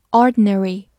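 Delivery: American "ordinary" with a pronounced r; American pronunciation. Shown as a demonstration. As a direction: say "ordinary" the American way, full "ner" in the middle. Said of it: "美式发音可以读作". (美式发音读"ordinary")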